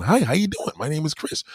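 high, corny self-introduction; mock a corny guy introducing himself; hammed-up goody-goody pickup greeting. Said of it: "She gonna be like, "Corny".

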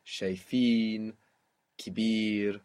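"shayfin" and "kibir" with long, stressed final vowels; slow down and weight FIN and BIR in "shayfin, kibir"; long stressed last syllable. Shown as a demonstration. Teacher gives long vowel examples, stressing the ends of shayfin, kibir. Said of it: "pull the accent onto the end".

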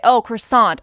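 croissant said the French way, "krwah-SAHN"; croissant with a mock French accent; a hammed-up French croissant; French-style croissant. Shown as a demonstration. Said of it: "in English, I would say".

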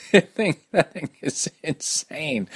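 breathy whispered aside after a laugh. Real, not acted. Host whispering to listeners how insane the race was. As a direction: hush it like a secret, in awe.

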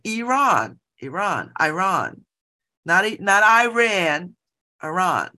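Iran tried again and again, ee-RAHN then eye-RAN; imitating the reporter. Reporter practising the name after being corrected. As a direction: fumble through Iran like a flustered reporter. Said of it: "he was just like".

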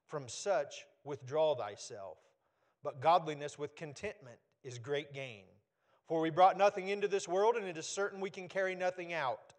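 measured, solemn Bible reading; scripture reading. Acted. Pastor reading scripture to the church, solemn and measured. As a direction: read the verses out to the congregation.

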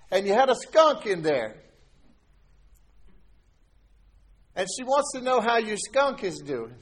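high, loud retelling of stepdad's teasing; amused teasing. Retold or imitated. Stepdad teases his son over the phone, amused and loud. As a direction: tease him about the skunk dream, chuckling. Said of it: "And they're laughing".

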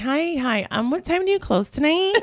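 high, sweet polite customer voice; sugary phone voice asking about closing time; drive-thru phone voice. Shown as a demonstration. Calling a restaurant, demoing her high sweet phone voice. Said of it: "I make that voice".

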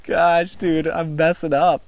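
loud, high, excited self-reproach; worked-up frustration. Real, not acted. Angler to his buddy after a missed strike, worked-up frustration. Just missed the fish twice.

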